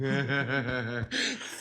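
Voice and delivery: long, gleeful laugh; delighted chuckle. Acted. Father delighted by Valère's scolding of his daughter, chuckling. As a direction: chuckle on and on, pleased.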